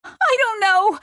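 high, squeaky giggling voice; laughing. Acted. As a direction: say it through welling laughter. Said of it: "laughter welled up from her belly".

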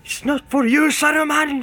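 high, loud, toneless shriek; shrill cry. Acted. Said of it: "he cried in a shrill and toneless voice".

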